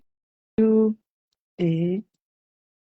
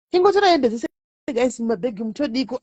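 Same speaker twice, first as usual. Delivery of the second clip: higher retake; 2 semitones higher than usual. Shown as a demonstration. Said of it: "repeats own line higher".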